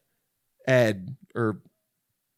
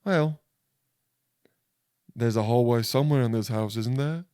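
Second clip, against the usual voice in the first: higher, hammed-up British accent; mock suave British gent; Ralph Fiennes; 5 semitones higher than usual. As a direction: put on a cheeky British voice. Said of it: "but he would be".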